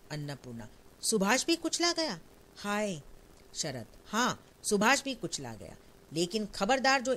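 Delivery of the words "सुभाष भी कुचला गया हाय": high, stricken question in disbelief; the words break out in horror; shocked disbelief. Acted. Annapurna hearing her son Subhash was crushed, shocked disbelief.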